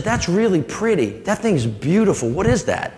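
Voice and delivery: put-on a curious little girl pointing; lightly voiced child. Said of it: "She said".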